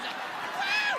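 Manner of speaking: high, excited woo; celebratory whoop. Retold or imitated. Boy cheering after his dad hangs up, whooping. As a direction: cheer like you just won.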